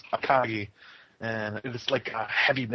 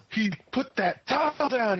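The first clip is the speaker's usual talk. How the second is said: higher, slow mock astonishment; imitating stunned anime spectators; mock shocked onlooker; 9 semitones higher than usual. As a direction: hush it like it's monumental. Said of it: "they go".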